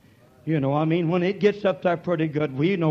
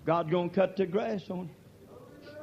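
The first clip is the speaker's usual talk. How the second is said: shouted warning; 4 semitones higher, slower than usual. Real, not acted. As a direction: shout God's gonna cut the grass on you slowly, leaning on cut. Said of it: "echoed softly right after".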